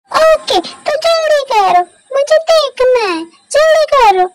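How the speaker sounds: put-on a spoiled child insisting; impatient high child voice; demanding child.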